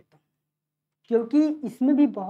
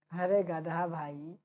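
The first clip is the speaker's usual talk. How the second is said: slow, low, softly exasperated; mock scolding; 5 semitones lower, 6 dB quieter, much slower than usual. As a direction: drag out a mild mock scolding. Teacher mock-scolds students who missed it. (धीमी, बनावटी झिड़की)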